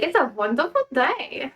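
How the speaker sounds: lightly put-on Russian accent, sounding rather German; attempted Russian accent. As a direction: try a playful, mock Russian accent. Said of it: "Russian, be like".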